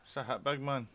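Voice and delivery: high, loud triumphant gloat; gleeful cheer. Real, not acted. Gamer's cannon shot lands on the enemy ship, gleeful loud gloat. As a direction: crow over the hit.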